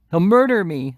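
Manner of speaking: high, loud panicked wail; whimper-shout in terror; blubbering. A narrator's reading. Noah knocked down, blubbering in fear. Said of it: "blubbered Noah".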